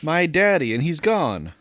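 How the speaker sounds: a hint of a whimpering child; lost little girl. Voicing the lost crying girl.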